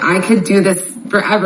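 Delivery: ordinary delivery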